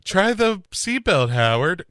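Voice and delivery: high, feeble urgent plea; weak urgent plea. Retold or imitated. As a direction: gasp it out with the last of your strength. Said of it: "he's like".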